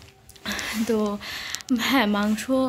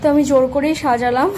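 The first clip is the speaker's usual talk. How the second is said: loud, free and lively; no more hiding, speak out full; normal loud voice again; 2 semitones higher, 6 dB louder than usual. Real, not acted. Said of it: "আস্তে আস্তে কথা বলছি কারণ". (আর লুকোনো নেই, জোরে খোলা গলায়)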